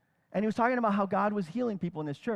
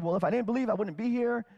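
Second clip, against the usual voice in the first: a light sarcastic retort, slightly raised; tossing it back with a hint of sarcasm; real sarcastic; 4 semitones higher than usual. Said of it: "real sarcastic".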